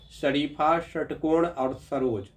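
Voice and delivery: शरीफा, षटकोण और सरोज said slowly, each sibilant distinct; slow and clear: शरीफा, षटकोण, सरोज; careful pronunciation. Shown as a demonstration. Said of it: "तीनों शब्द का उच्चारण कीजिए". (धीरे और स्पष्ट उच्चारण)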